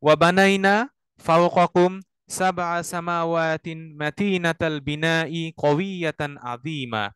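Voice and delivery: very slow phrase-by-phrase chanted Arabic; recite to repeat. Shown as a demonstration. Teacher leads students to repeat after him. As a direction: chant each phrase slowly for students to echo.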